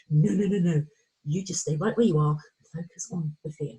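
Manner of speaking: the brain shutting everything down; voicing the fearful brain. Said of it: "the brain goes".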